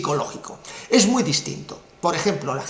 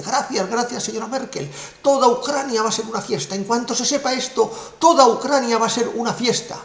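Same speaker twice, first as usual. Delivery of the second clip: higher, delighted gushing; overjoyed; 5 semitones higher than usual. Retold or imitated. President thanking Merkel, joyful and higher. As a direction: celebrate every word. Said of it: "bailando encima de la mesa".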